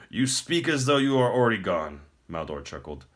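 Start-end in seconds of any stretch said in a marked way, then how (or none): 0.1-2.0 higher, louder and grand, a pleased tyrant; smug emperor. Acted. The Emperor taunts the captive prince, smug and grand. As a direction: speak down to a beaten foe.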